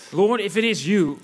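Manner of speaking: calling out. Acted. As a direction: act out a disciple hailing his Lord. Interpreter acts Peter calling out. (langzaam roepend, als Petrus)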